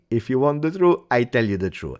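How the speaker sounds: mock solemn coach promising the truth; hint of a self-important Allegri; Allegri impression. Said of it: "Chuck Allegri".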